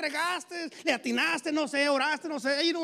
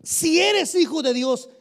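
slow, louder taunt with eres stressed; taunting devil; 2 semitones higher, 9 dB louder, slower than usual. Retold or imitated. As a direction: sneer it as a challenge. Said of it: "El diablo se acerca a Jesús y le dice". (el diablo retando, recalcando eres)

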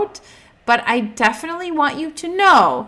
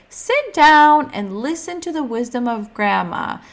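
higher, louder grandma command; bossy grandma; 5 semitones higher, 6 dB louder than usual. Retold or imitated. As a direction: lay down the law like grandma. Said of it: "she would always say".

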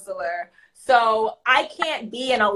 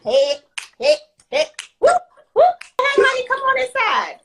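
high, bright call across the hall, louder on whoop; calling out to a child; 12 semitones higher, 3 dB louder than usual. Retold or imitated. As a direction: sing out hey, honey, come on inside.

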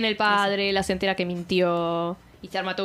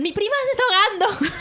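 high frantic cry for help; panicked plea; 10 semitones higher, faster than usual. Retold or imitated. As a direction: fake drowning panic, high pitched. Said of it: "que dicen".

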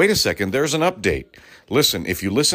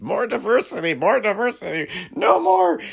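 mock white complainer; 12 semitones higher than usual. Mocking white broadcasters.

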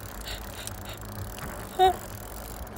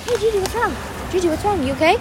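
imitating mom; 9 semitones higher, 6 dB quieter than usual. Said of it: "she was like".

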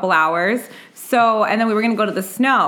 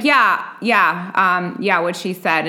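meek brother; 3 semitones lower, slower than usual. Retold or imitated. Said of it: "my brother is super quiet".

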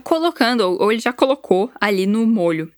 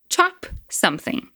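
slow model phrase; 8 semitones higher, 4 dB quieter, slower than usual. Shown as a demonstration. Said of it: "Vai lá".

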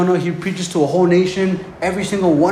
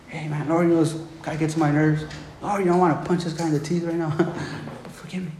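mock confession; 6 dB quieter than usual. Mock prayer confessing annoyance, ends laughing.

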